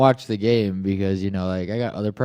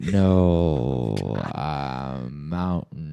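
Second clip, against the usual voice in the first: slow, dragging, drawn-out voice, lower and quieter; 10 semitones lower, 5 dB quieter than usual. Answering after being told to stop talking slow on the mic: slow dragging speech. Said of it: "you sound like your batteries are dying".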